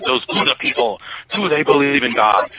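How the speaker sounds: imitated Egyptian cabbie accent; lightly put-on foreign cabbie's accent, questioning; Hussein. Cabbie questioning passenger about Buddhists, imitated accent. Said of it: "I guess I'm still doing Hussein".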